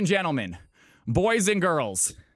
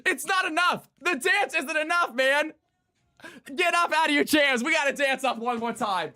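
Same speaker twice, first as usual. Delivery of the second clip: pumped-up hype; 4 semitones higher than usual. Real, not acted. Hyping chat further.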